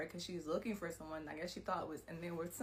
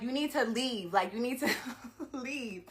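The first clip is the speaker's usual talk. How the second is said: louder, urgent demand; demanding she leave; 3 semitones higher, 8 dB louder than usual. Retold or imitated. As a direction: insist firmly that she go. Ordering attacker out of her home.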